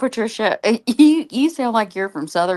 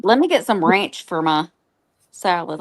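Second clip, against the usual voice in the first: Southern accent. Shown as a demonstration.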